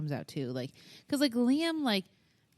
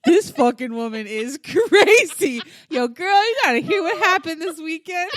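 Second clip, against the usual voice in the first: exaggerated gossip voice; judging mom quote; 8 semitones higher, 8 dB louder than usual. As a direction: ham up the judgy mom phoning a friend. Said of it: "she's like".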